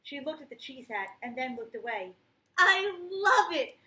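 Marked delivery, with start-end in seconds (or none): 2.6-3.8 loud, high, slow hoot of delight. Acted. Uncle Fred hooting over Rosie's cheese hat, loud and high. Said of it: "Fred hooted".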